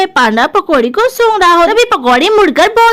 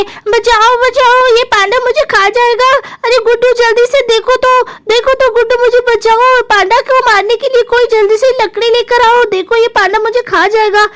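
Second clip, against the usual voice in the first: mock scream for rescue, pitched up; crying for help; 4 semitones higher than usual. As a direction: plead urgently as a frightened sister. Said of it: "जोर से चिल्ला रही होती है".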